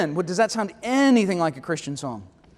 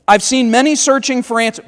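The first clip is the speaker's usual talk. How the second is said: snarky; 4 semitones higher, 5 dB louder than usual. Acted. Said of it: "I know that sounded snarky".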